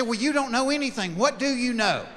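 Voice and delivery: high-pitched, fed-up demand; exasperated wife. Acted. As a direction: imitate a wife losing patience. Wife exasperated by his non-answers.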